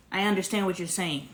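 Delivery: gentle I understand, no argument; calm acknowledging tone. Shown as a demonstration. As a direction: say it to show you really heard her. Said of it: "Do you see the difference?".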